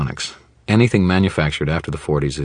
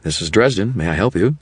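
higher, bright forced cheer; false cheer; 4 semitones higher than usual. Acted. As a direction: sound chipper through clenched teeth. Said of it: "the same false cheer".

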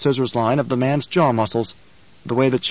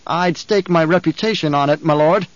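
nervous guard captain; 4 semitones higher than usual. Acted.

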